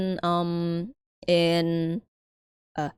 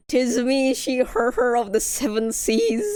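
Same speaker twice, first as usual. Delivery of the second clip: hearty pirate growl; 6 semitones higher than usual. Pretend. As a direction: play it like a jolly pirate. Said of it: "sounds like a pirate".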